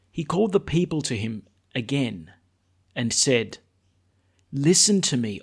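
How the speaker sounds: measured, solemn Gospel reading; formal scripture reading. Acted. Priest reads the Gospel aloud.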